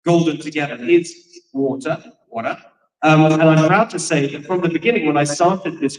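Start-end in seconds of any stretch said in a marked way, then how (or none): 1.5-2.0 drawn-out English "water"; English accent. Shown as a demonstration. Host showing her own way with the word, English accent. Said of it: "you say water". 2.3-2.6 "water" corrected to American; American accent. Shown as a demonstration. Host correcting herself for California listeners, American accent. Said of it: "You gotta say water".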